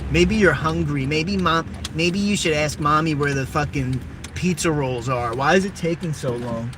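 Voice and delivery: whiny spoiled kid mocking mommy; mock tantrum at mom; bratty kid voice. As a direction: play a spoiled brat yelling for snacks. Mocking a whiny kid demanding food.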